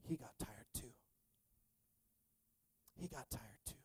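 very soft, almost whispered; barely-there, reverent murmur; hushed. Real, not acted. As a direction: let it sink in, hushed and low. Hushed revelation to congregation.

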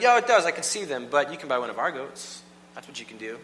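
insist, then sell with mock politeness; smug priest. The priest insists the goat is flawed, lightly smug. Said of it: "the priest would be like".

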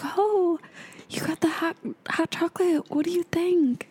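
put-on high Italian-accented broken English. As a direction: chirp it like an Italian lady. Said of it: "But really broken English".

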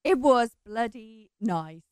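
down a well. Real, not acted. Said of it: "I do sound a bit like I'm down a well".

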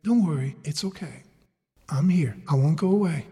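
low, gentle bedside reassurance; lightly voiced mother's comfort. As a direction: soothe a frightened child, voice dropped. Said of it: "my mother next to my bed would say".

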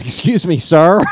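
high, loud comic call, breaking into laughter; Jim Carrey. Retold or imitated. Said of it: "and he goes".

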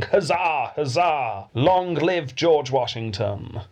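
mild mock shout, drawn out; imitated crowd cheer. Podcast host retelling a crowd hailing the new president, imitated cheering. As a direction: cheer like a crowd, without full volume. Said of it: "the crowd started shouting".

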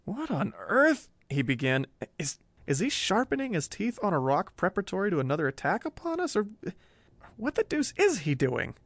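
bewildered. Acted. Bewildered photographer questioning.

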